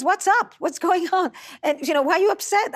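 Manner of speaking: lightly acted, wondering what's wrong; puzzled husband. Husband to somber wife in the car, acted puzzlement.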